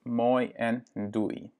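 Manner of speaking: moi en doei said slowly, the oei of doei rounded "dui"; teacher models moi and doei for the learner; slow Dutch words. Shown as a demonstration. Slow, careful model. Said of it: "Donc voilà, hoi".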